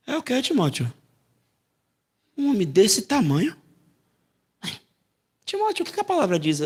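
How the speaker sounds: lightly voiced firm rebuke; a hint of a fatherly scolding; Holy Spirit's voice. Preacher voicing the Spirit rebuking Timóteo. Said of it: "O Espírito Santo fala comigo assim".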